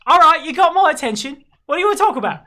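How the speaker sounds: high, loud landlady; brusque tavern owner. Acted. Tavern owner sitting down to hear a stranger out, brusque. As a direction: challenge them in a high, forceful voice.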